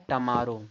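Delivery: "टमारो" as tuh-maaro; "टमारो", uh after the t; correct pronunciation. Shown as a demonstration. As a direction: say "टमारो" with a reduced first vowel. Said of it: "इसको क्या पढ़ा जाता है?".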